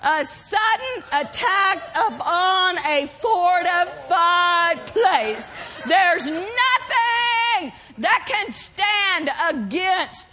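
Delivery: slow, stretched-out proclamation; emphatic preaching. Real, not acted. Preacher declaring assault on strongholds, slow emphatic preaching. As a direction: hammer out each word as a battle cry. Climactic repeat of definition.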